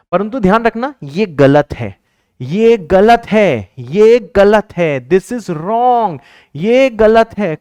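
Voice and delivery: each word stretched out loud and high; slow emphatic shout. Real, not acted. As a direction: drag out "ये गलत है" to drive it in. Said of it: "मैं चिल्ला के बोल रहा हूं". (धीरे-धीरे ज़ोर देकर चिल्लाना)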